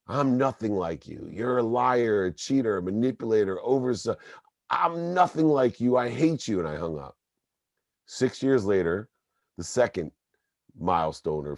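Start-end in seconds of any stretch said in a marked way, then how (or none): 0.1-6.6 rising to a furious peak at nothing; building fury. Retold or imitated. Son telling his father he hates him, building to a furious high.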